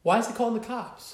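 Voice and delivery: incredulous. Real, not acted. Co-host pressing in disbelief.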